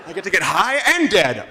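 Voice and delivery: lightly voiced dopey local, a touch of a laugh; a hint of a mock stoner; mock Flint voter. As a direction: play a stoned Flint voter taking the deal.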